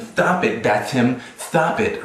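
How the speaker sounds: lightly camp plea of stop it; mock limp-wristed voice. Mocking how Tim imagines him fighting back, lightly camp voice. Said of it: "say things like this".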